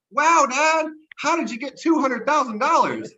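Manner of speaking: wide-eyed kid asking Dad, mimicked; imitating young daughter. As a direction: put on a little girl's wonder, pitched well up. Voices his young daughter asking.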